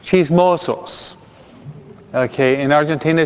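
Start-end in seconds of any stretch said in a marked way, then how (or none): 0.0-1.2 "chismosos" said slowly in Spanish; drawn out Spanish "chismosos", each syllable clear; "chismosos" spoken slowly with Spanish sounds; Spanish word. Shown as a demonstration. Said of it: "they say in Spanish".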